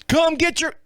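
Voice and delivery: long-distance yell at contained volume; retold yell. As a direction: re-enact calling across fields to the neighbors. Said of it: "I'm yelling".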